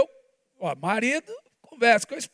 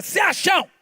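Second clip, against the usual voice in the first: daughter's sassy word; 8 semitones higher than usual. Retold or imitated. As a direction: fling it like a cheeky girl. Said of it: "ela fala". (imitando a filha, debochada e aguda)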